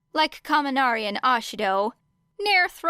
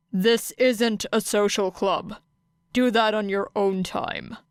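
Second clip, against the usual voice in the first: Aizawa's voice. Acted. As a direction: address the class flatly. Aizawa dismissing student.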